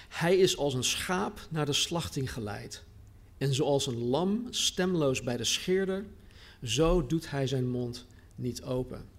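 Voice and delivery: a lightly held scripture reading voice. Acted. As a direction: read the passage aloud to the congregation, evenly. Reading scripture aloud before preaching.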